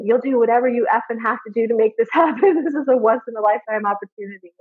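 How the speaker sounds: lightly imitated South African friend, insistent; South African accent. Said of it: "in a lovely South African ac-, accent".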